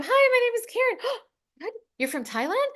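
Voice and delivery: high, gushing self-imitation with a gasp; completely unfiltered. Corporate trainer introducing herself to a very reserved guy, unfiltered. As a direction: play up unfiltered, happy-go-lucky eagerness. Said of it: "This was me completely unfiltered".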